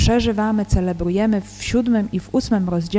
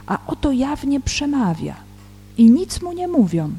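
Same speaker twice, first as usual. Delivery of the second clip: solemn Gospel reading with deliberate pauses; scripture reading. Real, not acted. Teacher reads John's Gospel in Polish before commenting, measured scripture reading. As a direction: read the verses out, phrase by phrase.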